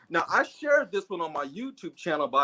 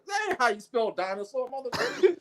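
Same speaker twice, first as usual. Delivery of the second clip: laughing retort; 8 semitones higher than usual. Retold or imitated. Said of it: "I was like".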